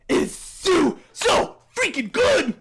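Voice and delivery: high, drawn-out excited outburst; gushing fanboy. Real, not acted. Fanboy gushing to viewers about the song, excited. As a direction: build to an emphatic peak on the praise. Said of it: "I'm done fanboy".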